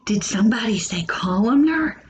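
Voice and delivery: gasp, then a hushed whispered question; playful whispered gasp at an imagined answer; mock surprised whisper. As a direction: act amazed someone answered, whispering. Pretend answer from silent class.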